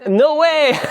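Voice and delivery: high, loud burst of surprise, breaking into laughter; amazed disbelief. Real, not acted. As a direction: exclaim in delighted disbelief. Amazed at the correct origin.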